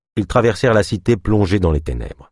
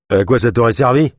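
louder, gruff growl; growling retort; 4 semitones higher, 4 dB louder than usual. Acted. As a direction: snap it back with a growl. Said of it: "grogna Marlowe".

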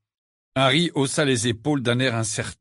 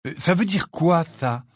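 high-pitched, indignant question; 7 semitones higher than usual. A narrator's reading. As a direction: take offence as you ask. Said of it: "s'indigna Ron". (indigné, voix plus aiguë)

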